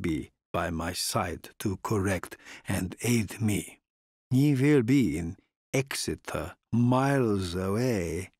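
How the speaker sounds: put-on slow, measured old nobleman; deliberate courtly foreign count. Count speaks to Harker.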